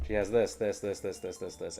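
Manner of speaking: mock laundry list. Shown as a demonstration. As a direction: rattle it off like a tedious inventory. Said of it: "it just sounds like this".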